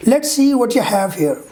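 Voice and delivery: "what you" blended as "whatcha"; reduced form. Shown as a demonstration. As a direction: link "what you have" smoothly. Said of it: "let me read the reduction form".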